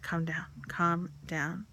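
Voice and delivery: slow hushed calming; soothing whisper. Retold or imitated. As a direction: slowly whisper to calm her. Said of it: "she's like".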